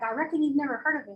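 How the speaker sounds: quick, lightly Southern "I reckon"; light Southern imitation. Teacher imitating a Georgia guy, lightly Southern. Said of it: "He's like".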